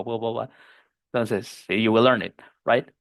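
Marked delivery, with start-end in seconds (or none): 0.0-0.5 low, soft "bua bua bua"; low mumbled filler noise; lazy filler sound. Shown as a demonstration. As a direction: imitate slack filler vowels. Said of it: "con un sonido así como".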